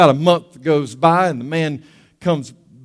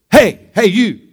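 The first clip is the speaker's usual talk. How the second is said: raised, loud heckle from a parrot; parrot calling out; 4 semitones higher, 6 dB louder than usual. Acted. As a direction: call out to catch a passer-by. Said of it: "And the parrot".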